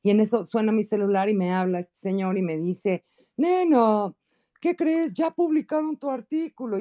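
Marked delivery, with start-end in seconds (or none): 3.4-6.8 high cartoon rooster voice, eager; gallo Claudio voice. Friend phoning with news in a high cartoon rooster voice. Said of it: "Así como la del gallo Claudio de las caricaturas".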